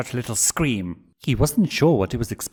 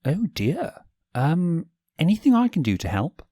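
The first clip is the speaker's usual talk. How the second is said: higher, quick eager offer; sweet prince voice; 8 semitones higher than usual. Acted. Stolas offering to help grumpy Blitz, high and eager.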